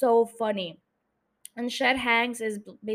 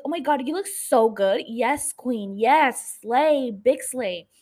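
loud gushing praise, yes and slay punched; hyping up Alyssa in gushing slang; hyping up a friend; 4 dB louder, slower than usual. Retold or imitated. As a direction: cheer your friend on like a teen fan. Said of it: "hyping up Alyssa, talking like that".

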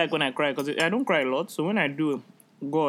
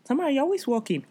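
imitating dad; 8 semitones higher than usual. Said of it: "I was like".

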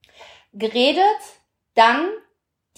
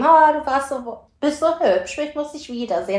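mock gushing message; 4 semitones higher than usual. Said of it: "ich hab jetzt nicht geschrieben".

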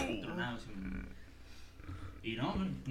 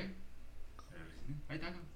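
hushed mock aside; 4 semitones higher, 7 dB quieter than usual. Voicing the host handing food.

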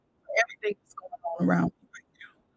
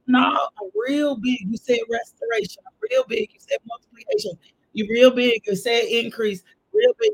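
preacher building fervour with the congregation; fervent preaching; 2 semitones higher than usual. Real, not acted. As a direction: hammer each claim home. Preaching at full force.

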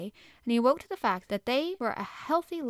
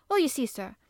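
flushed housekeeper; 4 semitones higher, 6 dB louder than usual. Acted. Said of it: "really was flushed".

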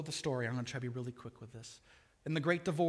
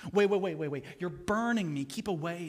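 a ghost recoiling from burning heat; panicked ghost; 2 semitones higher, 6 dB louder than usual. Acted. Ghost shrinking from the burning angel, loud and panicked.

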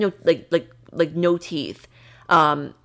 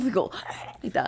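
unvoiced scared gasp; gasp demo; 4 semitones higher, 7 dB quieter than usual. Shown as a demonstration. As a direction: gasp like you scared yourself. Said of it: "open your mouth... go like that".

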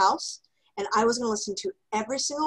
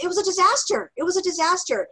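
laughing exasperation; 9 semitones higher, 4 dB louder than usual. Real, not acted. Comic retelling of headset mishap.

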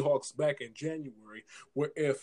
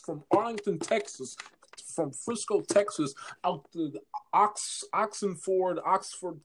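ordinary delivery

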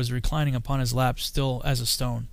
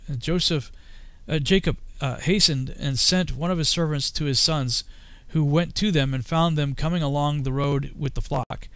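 ordinary delivery, nothing marked

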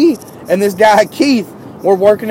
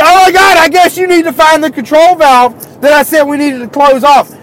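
mocking reply; 10 semitones higher, 7 dB louder than usual. Mocking the boss back.

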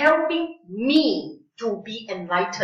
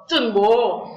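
Singlish; 4 dB louder than usual. Shown as a demonstration. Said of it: "any other version of Singlish".

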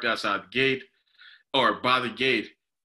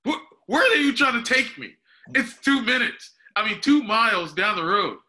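much higher and louder, outraged at the fare; incredulous; 10 semitones higher, 5 dB louder than usual. Retold or imitated. Recalling the overpriced ride quote, loud incredulous scoff. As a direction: scoff at the ride price, pitched way up. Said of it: "I was like".

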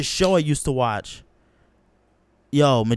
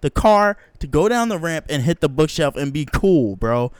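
outraged protest; 3 semitones higher, 5 dB louder than usual. Retold or imitated. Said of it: "I was like".

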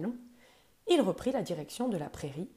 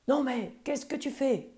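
higher, louder angry scold; growling angrily; 7 semitones higher, 5 dB louder than usual. Acted. The grumpy buffalo, woken by the monkey, growls angrily. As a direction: roar at the pest on your back. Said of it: "gronda-t-il".

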